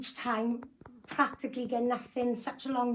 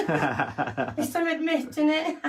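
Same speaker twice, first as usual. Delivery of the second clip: laughing through the words; 4 semitones higher, slower than usual. Real, not acted. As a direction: say it while giggling. Laughing at her own joke.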